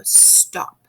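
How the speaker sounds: hushed but firm, not yelling; firm whispered command. Shown as a demonstration. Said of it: "I wasn't yelling".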